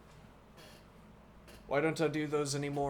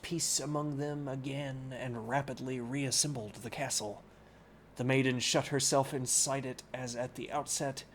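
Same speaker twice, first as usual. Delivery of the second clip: clear, steady reading-aloud voice; story narration. Acted. Streamer reading Don Quixote aloud to chat, in narration voice. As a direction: read the book to chat like a storyteller.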